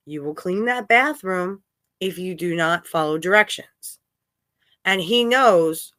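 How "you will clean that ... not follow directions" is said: understated stern mother laying down a rule; serious parental warning. Retold or imitated. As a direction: imitate a firm, measured instruction without raising the voice. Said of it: "look at him and seriously go".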